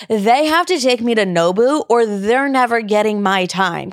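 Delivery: slow, haughty diva demand. Retold or imitated. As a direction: spell out her terms like a spoiled diva. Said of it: "I used to be a crazy bitch".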